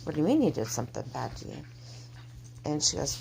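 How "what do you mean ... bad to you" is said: softly worried questioning, quick; mildly alarmed, hurried question; very concerned. Retold or imitated. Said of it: "very concerned".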